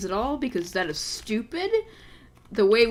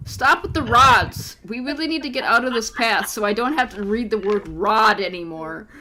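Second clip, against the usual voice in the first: exasperated; 5 dB louder than usual. Real, not acted. Exasperated reading complaint.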